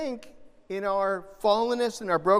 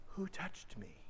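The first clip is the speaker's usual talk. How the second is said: whispered, much softer, tender question; gentle whisper; 17 dB quieter than usual. Shown as a demonstration. How Jesus really asked, a tender whisper. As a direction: breathe it tenderly, no blame. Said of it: "This is gentle".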